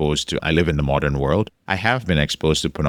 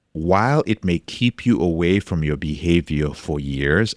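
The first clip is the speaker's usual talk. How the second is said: ordinary talk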